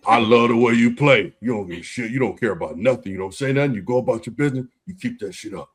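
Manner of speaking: gruff approval in a put-on Jersey accent. Veteran praising the way you play, imitated Jersey accent. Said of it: "in his Jersey accent".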